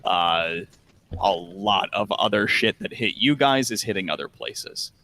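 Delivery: low, measured narration; unhurried, low-pitched description of a ruined city; game master's scene setting. Acted. Game master shows players the burning city, scene-setting narration.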